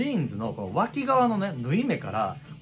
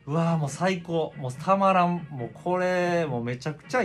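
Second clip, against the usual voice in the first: raised, rising joyful exclamations; delighted gush; 4 semitones higher than usual. Retold or imitated. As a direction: gush over the new jeans. Thrilled with new jeans.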